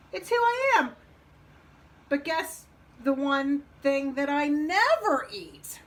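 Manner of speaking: starts high and loud, then slows; teasing wolf. Acted. Wolf sets Frog a riddle, teasing. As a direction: tease out the riddle slowly.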